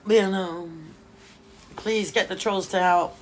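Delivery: laughing while quoting. Retold or imitated. Quoting Just Money's joke to viewers, laughing through it. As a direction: quote broken by laughter. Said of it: "Just Money was like".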